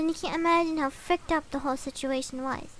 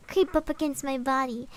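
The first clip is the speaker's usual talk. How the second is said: usual speaking voice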